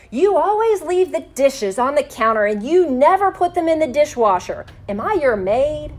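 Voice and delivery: accusing complaint. Shown as a demonstration. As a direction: hurl it like an accusation at your partner. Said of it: "will pull up the defensive walls".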